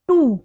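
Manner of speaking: "टू" given firm stress as a separate beat; stressed syllable. Shown as a demonstration. Teacher demonstrating a metrical foot, "टू" stressed. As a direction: lean on "टू" as the strong syllable. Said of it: "थोड़ी high sound में बोल रहे हैं".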